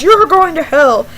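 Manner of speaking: loud imitation of a condemning pastor; mock yell. Pastor yelling at girl wearing pants, mock yell. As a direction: raise your voice like a hellfire preacher. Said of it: "He yells".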